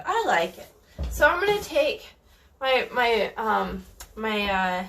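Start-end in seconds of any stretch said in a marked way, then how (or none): 2.6-4.8 stalling, fighting a sneeze; words held up by a coming sneeze; holding back a sneeze. Real, not acted. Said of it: "I'm trying not to sneeze".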